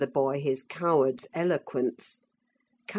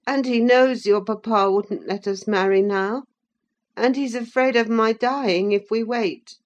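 put-on a touch higher, fretful boy; lightly voiced sickly boy; 6 semitones higher than usual. A narrator's reading. Linton telling Catherine his papa's plan, a little petulant. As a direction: explain it matter-of-factly.

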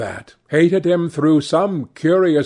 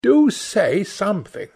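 lightly voiced girl, higher, pleading; a hint of an eager young sister; Sibyl crying out; 7 semitones higher than usual. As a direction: coax her brother to listen. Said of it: "cried Sibyl".

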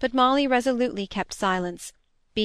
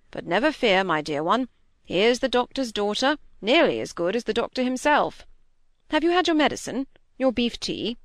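a hint of a hearty squire cheering his wife; lightly voiced squire, bustling and fond; mild husbandly cheer at the sickbed; fussing squire; 2 semitones higher than usual. Squire comforts his sick wife.

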